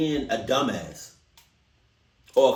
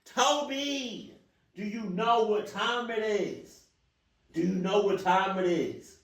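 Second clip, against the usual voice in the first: quieter mock scolding; 4 semitones higher, 5 dB quieter, slower than usual. Same question again, to Toby.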